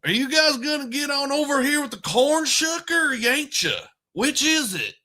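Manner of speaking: high, hammed-up rural Missouri hick accent. Shown as a demonstration. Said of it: "your voice changes from my voice to".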